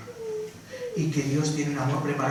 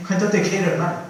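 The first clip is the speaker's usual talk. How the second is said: lightly hammed-up churchy affection; a hint of overdone sweetness to a brother; mock gushing greeting; 4 semitones higher than usual. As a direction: gush at a church brother a bit. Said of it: "se lo dices así".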